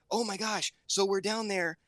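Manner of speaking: daughter retelling. Retold or imitated. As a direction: tell it as the upset kid would. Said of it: "She goes".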